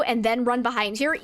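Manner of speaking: ordinary delivery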